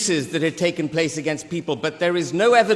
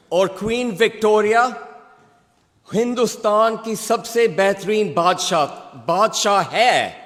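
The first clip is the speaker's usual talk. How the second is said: voicing the old cook; 3 semitones higher than usual. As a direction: speak as the elderly cook, slowing down in Urdu. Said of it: "I'm gonna speak in Urdu".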